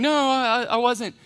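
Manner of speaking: high-pitched, flustered mock denial; nervous denial. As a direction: act out a mildly panicked, stammered denial. Acting out Peter's scared denial.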